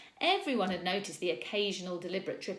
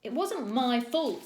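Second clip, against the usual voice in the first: higher, louder, slow snarl; 5 semitones higher, 6 dB louder than usual. A narrator's reading. Rowan denying blame to the teacher, snarling. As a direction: snap back in defence. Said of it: "snarled Rowan".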